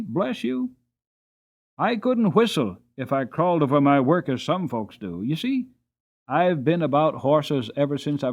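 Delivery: put-on a cheerful little old man, rambling proudly; chatty old hostler. Hostler's long speech to James.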